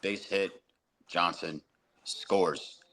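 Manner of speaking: flat, dull, soft call; monotone announcer. Retold or imitated. Mocking monotone radio announcers, dull and soft. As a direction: drone it with no excitement. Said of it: "they're so monotone".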